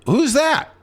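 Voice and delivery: high-pitched startled question; surprised. Retold or imitated. Storyteller at the craps table asking the stick man, surprised and high. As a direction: squeak it out, suddenly curious. Stunned at spotting Al Pacino.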